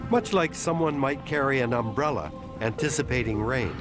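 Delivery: calm measured documentary narration; nature documentary. A narrator's reading. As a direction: narrate it like a wildlife film. Documentary narration of octopus intelligence.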